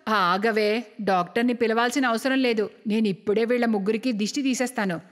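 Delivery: low-pitched elder, brisk refusal into lament; superstitious mother-in-law. Acted. Mother-in-law laments evil eye. (తగ్గు స్వరంలో వాపోయే అత్తగారు)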